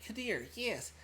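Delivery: high, eager squeak of recognition; light up at seeing an old friend; excited recognition. Pretend. Susanna spotting Kadir, high and excited.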